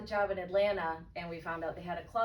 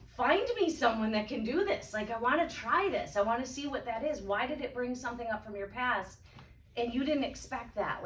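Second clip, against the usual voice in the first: excited; 5 semitones higher, 4 dB louder than usual. Retold or imitated. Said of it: "And I'm like".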